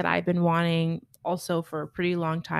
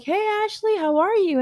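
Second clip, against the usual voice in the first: bright, much higher greeting, a bit louder; surgeon's greeting; 13 semitones higher, 6 dB louder than usual. Retold or imitated. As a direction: mimic the cheerful surgeon breezing in. Surgeon greets her cheerfully.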